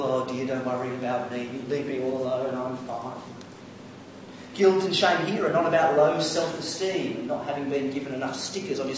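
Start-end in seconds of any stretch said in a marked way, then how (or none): 0.0-3.1 mock martyr. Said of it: "manipulative people".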